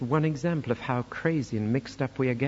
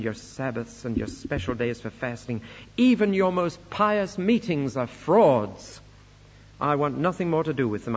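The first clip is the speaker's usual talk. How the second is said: indignant denunciation; 4 dB louder than usual. Acted. Preacher voices God condemning pious meetings, indignant denunciation. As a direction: drag it out and hit each stressed word hard. Acted divine denunciation from Isaiah.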